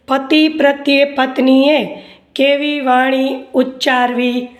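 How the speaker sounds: measured phrases with long gaps; slow dictation. Acted. Teacher dictating question and answer to students, slow dictation. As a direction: dictate piece by piece for note-takers.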